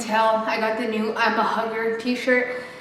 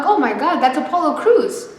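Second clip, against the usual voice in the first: excited; 6 semitones higher, 3 dB louder than usual. Retold or imitated. Spotting a wrestler, excited.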